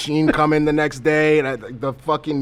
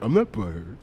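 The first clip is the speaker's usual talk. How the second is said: mock butthurt denial; 4 semitones lower, 4 dB quieter than usual. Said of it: "are you butthurt".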